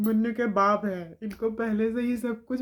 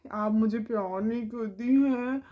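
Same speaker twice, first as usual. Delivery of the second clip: put-on whiny child; 3 semitones higher than usual. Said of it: "उससे कह रही है".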